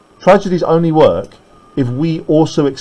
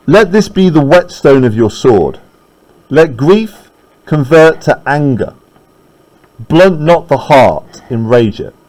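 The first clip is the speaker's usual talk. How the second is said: dramatic reading; slower than usual. Acted. Teacher reads Macduff's lines aloud.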